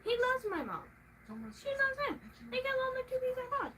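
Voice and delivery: high, fast, tearful whine; half-crying high whine about him and her mom; whining rant. Real, not acted. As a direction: complain with a cry in the voice. Ranting about mom liking him.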